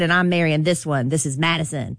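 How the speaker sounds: lightly voiced rapper; a hint of a rapper's voice; rapper impression. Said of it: "That's my Weezy in voice".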